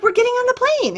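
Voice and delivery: high, emphatic insistence; insistent teen. Retold or imitated. Teen repeats to her baffled dad that they are boarding, high and emphatic. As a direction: spell it out for a confused dad.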